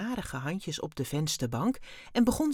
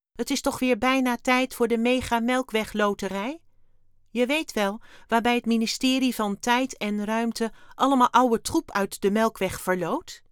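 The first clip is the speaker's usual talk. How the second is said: high, loud alien voice, breezy explainer; chatty alien Wim; 6 semitones higher, 7 dB louder than usual. A narrator's reading. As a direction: rattle off the lottery as an eager little alien. (hoge, luide, opgewekte ruimtewezenstem)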